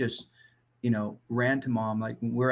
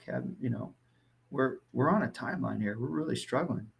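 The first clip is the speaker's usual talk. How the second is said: lowered tone; 3 semitones lower than usual. Retold or imitated. Father calmly reaching his sensitive son, lightly softened. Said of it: "lower my tone".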